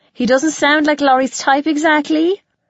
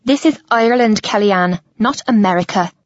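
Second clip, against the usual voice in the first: cutting; 3 semitones lower, faster than usual. A narrator's reading. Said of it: "her voice is like a knife".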